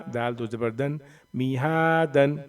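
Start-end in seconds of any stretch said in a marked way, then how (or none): 1.3-2.4 "मीहा दन" with हा held long; long madd. Shown as a demonstration. Teacher joining the letters, long हा in "मीहा दन". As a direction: stretch हा, then a short दन in "मीहा दन". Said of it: "खींच करके पढ़ेंगे".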